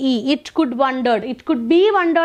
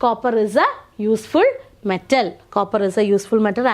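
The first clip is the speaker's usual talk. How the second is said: slow model sentence; 4 semitones lower, much slower than usual. Shown as a demonstration. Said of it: "ഇവിടുത്തെ answer എന്താ".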